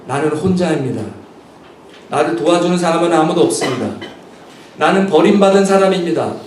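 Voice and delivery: self-pitying excuses. Retold or imitated. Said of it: "줄줄이 변명을".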